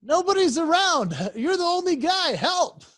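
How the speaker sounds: squeaky desperate pup voice; voicing the dog. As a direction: beg for help as a tiny trapped dog. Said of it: "as if to say".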